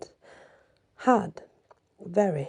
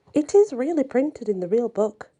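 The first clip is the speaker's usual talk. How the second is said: exclaiming; 4 semitones higher, 3 dB louder than usual. Acted. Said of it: "exclaimed Chesme".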